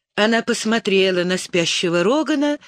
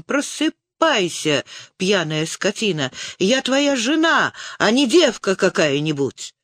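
angry shout; 2 semitones higher than usual. Acted. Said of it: "Почему ты кричишь?".

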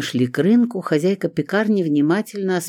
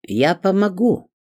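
lightly voiced baker woman, higher; a hint of the older baker offering; landlady offering help; 7 semitones higher, 4 dB louder, slower than usual. A narrator's reading. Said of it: "неожиданно сказала хозяйка пекарни". (слегка изображённая хозяйка пекарни)

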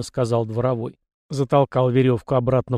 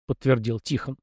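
usual speaking voice

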